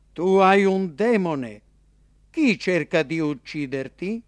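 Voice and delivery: accusa più alta e forte, lenta; folla accusatrice. A narrator's reading. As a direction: scaglia l'accusa con sdegno. (la folla accusa Gesù, sdegnata)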